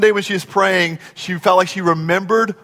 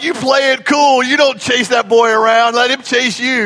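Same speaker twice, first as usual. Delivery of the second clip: insistent, slightly raised dad voice; urgent fatherly advice; 4 semitones higher than usual. Retold or imitated. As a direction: coach your daughter firmly. Dad advising daughter, retold.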